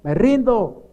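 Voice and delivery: imitating a worn-out, pleading prayer; retold crying surrender. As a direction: re-enact giving up to God, repetitions sinking away. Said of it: "solamente a llorar y decirle".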